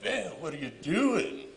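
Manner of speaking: high, loud panicked cry of disbelief. Retold or imitated. Father crying out to his armed son in terror. Son fires gun at parents.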